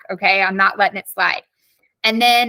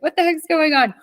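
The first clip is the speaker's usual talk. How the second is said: higher-pitched puzzled viewer; mock confusion; 5 semitones higher than usual. Teacher voicing viewers who can't see the chat, mock confusion. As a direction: lightly imitate someone who is lost.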